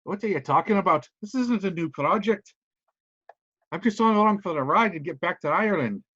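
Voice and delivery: a lightly put-on Irish accent, dismissive; Irish VIP brushing off a reporter, in an Irish accent. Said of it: "I got a shitty accent today".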